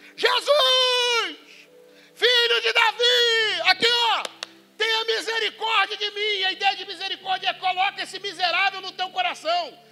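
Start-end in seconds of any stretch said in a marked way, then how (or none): 0.2-6.5 high, loud, very slow shout with drawn-out "Jesus". The speaker acts out a man in the street crying out to Jesus, retelling a shout. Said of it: "E começa a gritar".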